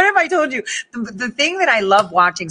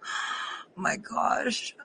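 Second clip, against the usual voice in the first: stunned whisper; 13 dB quieter, much slower than usual. Retold or imitated. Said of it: "you're just like".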